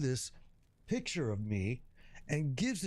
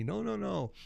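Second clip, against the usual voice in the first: put-on old man voice; 6 semitones higher than usual. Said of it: "he tells me".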